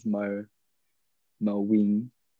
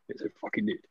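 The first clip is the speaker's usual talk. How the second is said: insistent repeat; 10 semitones higher, 9 dB quieter, faster than usual. Real, not acted.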